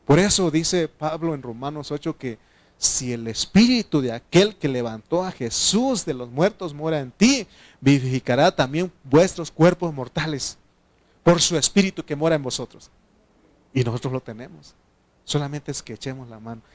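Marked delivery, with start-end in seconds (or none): 2.8-12.9 loud, emphatic verse quotation; forceful preacher's recitation; scripture declamation. Acted. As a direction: proclaim each phrase to the congregation.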